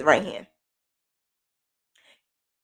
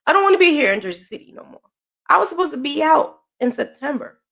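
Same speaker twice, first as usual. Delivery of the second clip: laughing complaint; 7 semitones higher, faster than usual. Real, not acted. Laughing about being stuck.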